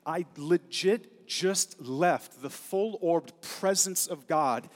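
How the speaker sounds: a messenger insisting on his authority; emphatic angel. Retold or imitated. Gabriel stressing he came straight from God's presence, loud and emphatic. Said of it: "he's saying".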